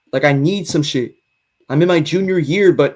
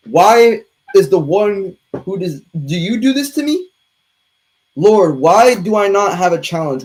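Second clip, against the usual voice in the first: mock lament. Melodramatic prayer to the Lord.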